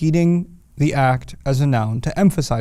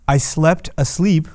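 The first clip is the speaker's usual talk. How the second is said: slow demo; 2 semitones higher, slower than usual. Shown as a demonstration. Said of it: "it'll sound something like this".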